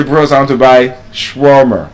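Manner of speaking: "shawarma" as shwor-mer in a casual order; modelled sentence. Shown as a demonstration. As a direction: say it like ordering from the bros. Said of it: "You say".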